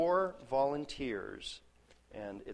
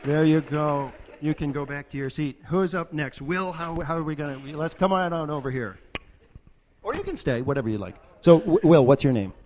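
loud carnival barker; 2 semitones higher, 10 dB louder than usual. Acted. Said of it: "game show host".

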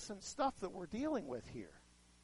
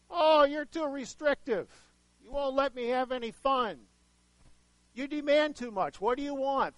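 whiny temper tantrum; 5 semitones higher, 5 dB louder than usual. Retold or imitated. Preacher voicing the people griping at God, high whiny teen. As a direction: whine it higher and louder, like a spoiled brat complaining. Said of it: "they're having a little bit of a temper tantrum here".

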